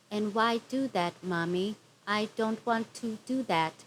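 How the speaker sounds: a hint of a whiny little girl, stiff line reading; mock the daughter's wooden delivery, lightly; imitating bad child actress. Vlogger mocking the cast daughter's acting, lightly whiny. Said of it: "She sounded like this".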